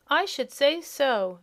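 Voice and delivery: high, loud, slow piglet grunt. A narrator's reading. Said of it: "grunted another of the piglets".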